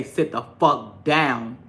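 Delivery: slow, firm order; stern command. Retold or imitated. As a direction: lay down the law to a toddler. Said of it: "when I say".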